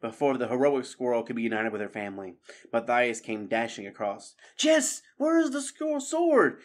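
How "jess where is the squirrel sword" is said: high, loud, pressing demand; urgent panting question. A narrator's reading. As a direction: rush up and ask urgently. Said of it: "he panted".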